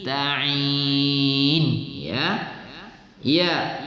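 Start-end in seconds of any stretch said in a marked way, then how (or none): 0.0-1.6 ta'in, throaty ain after ta. Shown as a demonstration. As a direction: sound ta'in with a clear ain. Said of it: "dengan ain". (ta'in dengan huruf ain)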